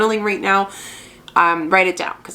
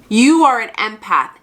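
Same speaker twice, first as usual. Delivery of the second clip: firm, emphatic, a touch louder; said powerfully; 3 semitones higher, 4 dB louder than usual. Shown as a demonstration. Mentor's best advice passed on to viewers, said powerfully. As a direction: land each word with weight. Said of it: "I'm gonna say this very powerfully".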